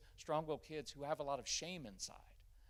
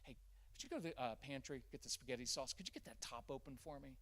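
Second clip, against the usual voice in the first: calm validating; 6 dB quieter than usual. Shown as a demonstration. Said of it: "what you could say is".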